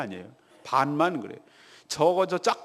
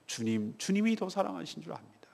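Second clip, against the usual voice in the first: hushed, almost whispered answer; pricked, humbled reply; 9 dB quieter than usual. Retold or imitated. Peter answering the repeated question, hushed and humbled. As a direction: voice a chastened disciple very softly. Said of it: "이 마음에 걸리는 거예요".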